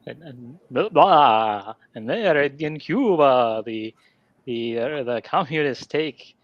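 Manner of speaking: a lightly voiced Dracula telling the plot; a mock Dracula, drawn out, with blah; Dracula accent. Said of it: "I'm just gonna do a Dracula accent".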